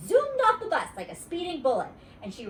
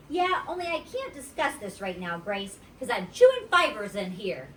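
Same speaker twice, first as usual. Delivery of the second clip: put-on little girl voice; 4 dB louder than usual. Junie B character voice.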